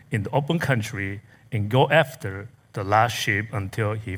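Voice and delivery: solemn reading of scripture to the congregation. Acted. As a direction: read the parable with gravity. Reads scripture passage aloud.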